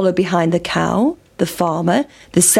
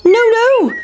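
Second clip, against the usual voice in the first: very high squeaky refusal; sing-song cheeky no; pancake refusing; 14 semitones higher, 5 dB louder than usual. A narrator's reading. Pancake taunting the chasers, squeaky refusal. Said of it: "said the big pancake".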